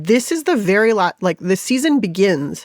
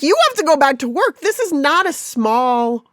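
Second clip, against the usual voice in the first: pleading inner voice; 5 semitones higher than usual. Retold or imitated. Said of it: "I'm just like".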